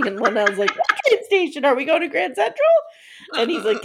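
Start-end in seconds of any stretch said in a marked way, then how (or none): 0.8-2.7 high, loud, squeaky questions; hammed-up bewildered outburst; mock clueless alarm. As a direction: squawk it in exaggerated confusion. Acting out a clueless musician's question.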